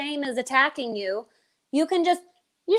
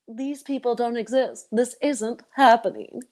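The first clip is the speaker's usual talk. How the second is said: denial voice. Acted. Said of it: "And then there's denial".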